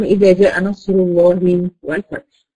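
slow recited إذا جاء نصر الله والفتح with a full, heavy lam in الله; Quran recitation demo. Shown as a demonstration. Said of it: "إذا سبقت بضم".

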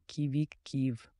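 slow, drawn-out bird call; startled bird cry. Shown as a demonstration. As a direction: draw out the call in mild alarm. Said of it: "ти можеш закричати". (протяжний пташиний крик)

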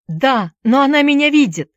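high, anxious protest; frightened cry. A narrator's reading. Boy watched by the she-wolf, frightened cry. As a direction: answer in alarm.

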